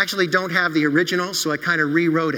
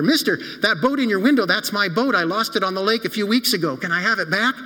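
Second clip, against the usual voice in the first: eager plea; 3 semitones higher than usual. Acted. Boy pleads with shop owner.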